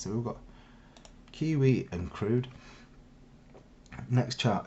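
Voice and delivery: blocked nose from a cold; sniffly and short of breath; full of cold. Real, not acted. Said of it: "excuse my, um, sniffing and shortness of breath".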